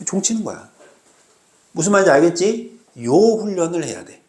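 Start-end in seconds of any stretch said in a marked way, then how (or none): none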